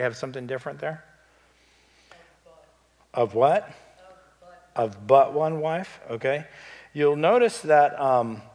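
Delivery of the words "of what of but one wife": calling out. Real, not acted. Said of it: "Who has a different word besides only?".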